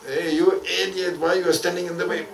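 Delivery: rough scolding of a passer-by; mock insult. Majdoub insulting the beginner, mock rough. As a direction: snap at him like a mad wanderer.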